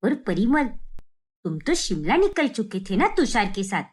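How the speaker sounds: stunned to find them home; surprised. Acted. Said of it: "उपासना एकदम आश्चर्यचकित हो जाती है।".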